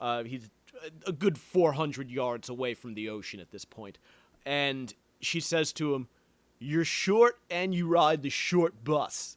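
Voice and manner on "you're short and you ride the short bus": rough, put-on Philadelphia accent. Retelling what a woman said to a man, in a put-on Philly accent. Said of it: "I don't know if that was a Philly accent".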